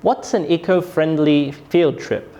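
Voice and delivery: "What's" strong, "field trip" falling; falling question intonation. Shown as a demonstration. Teacher demonstrates a W H question, falling tone on "field trip". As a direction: start firmly on "What's", drop on "field trip". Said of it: "my voice falls".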